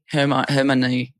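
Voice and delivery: slow false start, Hermione as "HER-muh-nee"; stumbling pronunciation. Real, not acted. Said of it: "I can't pronounce anything".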